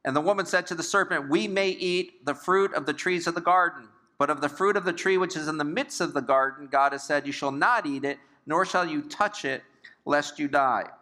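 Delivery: scripture reading. A narrator's reading. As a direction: read the verse out to a congregation.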